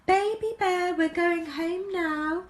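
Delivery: mother bear calling her cub home; calling Mummy Bear. A narrator's reading. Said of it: "Mummy Bear called in her middle-sized voice".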